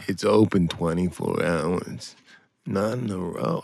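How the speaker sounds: low, slow deadpan one-liner; Stephen Wright deadpan. Retold or imitated. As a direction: drop it flat and slow, like a deadpan comic. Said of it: "I can't do it".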